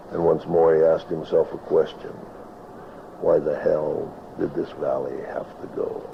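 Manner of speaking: rhythmic rhyming recitation, lightly performed; cowboy poetry. Acted. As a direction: recite it like a tale by the campfire. Recites his poem The Vanishing Valley.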